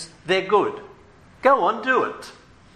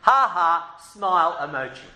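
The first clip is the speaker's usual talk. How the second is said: mock emoji. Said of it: "the disciples are saying".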